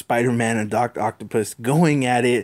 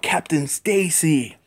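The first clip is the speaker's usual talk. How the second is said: higher, slow drawn-out call of the name; yelling out; 5 semitones higher, slower than usual. Acted. Spider-Man calls to the buried captain, mild mock yell. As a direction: call out his name in shock. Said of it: "Spider-Man yelling out".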